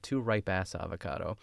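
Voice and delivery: "house" repeated as "ass", with no h; imitated French-accent mispronunciation. Amused host echoing chef's accent, "house" said as "ass". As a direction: echo the misheard "ass" in "Two ripe ass avocado". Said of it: "with his accent, it sounds like he says".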